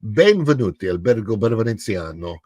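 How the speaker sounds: Italian-accented welcome; Italian gondolier greeting. Shown as a demonstration. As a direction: greet guests like a Venetian gondolier. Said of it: "warm up by saying".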